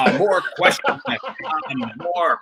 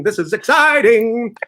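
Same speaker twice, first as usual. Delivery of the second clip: hyped-up; 7 semitones higher, 4 dB louder, slower than usual. Shown as a demonstration. Host hyping, third louder take.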